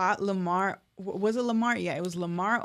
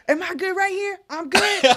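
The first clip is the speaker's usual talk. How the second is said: much higher, put-on nervous voice; mock timid rapper; 10 semitones higher, 5 dB louder than usual. A rapper asking the usher if he's okay, mock nervous high voice. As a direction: play it like a scared kid checking in. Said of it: "and he's like".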